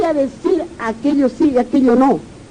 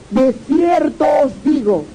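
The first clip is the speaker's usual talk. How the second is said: proclaiming shout; 4 semitones higher than usual. Acted. Jesus' words, proclaimed.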